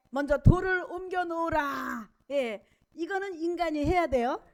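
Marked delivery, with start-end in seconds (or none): 0.1-2.1 loud, drawn-out commanding proclamation. Acted. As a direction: proclaim it slowly at full voice, as an order. Preacher voices Jesus' command at tomb. (크고 느리게 선포하는 명령조)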